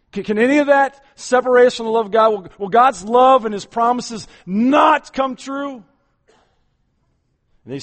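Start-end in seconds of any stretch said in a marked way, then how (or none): 0.1-5.8 preaching shout. Real, not acted. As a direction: thunder the question at the congregation.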